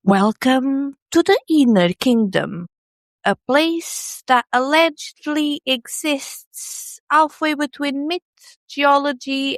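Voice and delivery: cosmic ASMR voice. Acted. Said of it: "Whenever the speaker does the cosmic A S M R voice".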